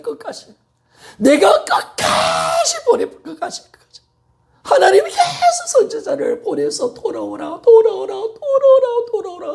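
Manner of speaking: high, urgent full-force sermon; impassioned preaching. Real, not acted. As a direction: cry out a desperate plea to the congregation. Preaching climax on God's urgent plea.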